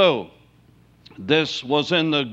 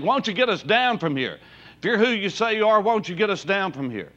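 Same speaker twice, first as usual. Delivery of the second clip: taunting criminal; 5 semitones higher, faster than usual. Retold or imitated. Mocking criminal on the cross.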